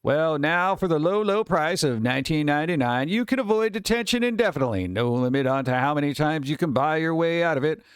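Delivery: lightly voiced TV pitchman; infomercial voice. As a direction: pitch it like a late-night ad. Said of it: "Infomercial voice".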